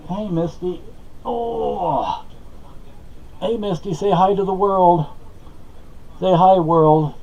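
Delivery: high, sing-song coo; cooing to Misty. Real, not acted. Greeting Misty in a high cooing voice. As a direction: coo up high at the little one.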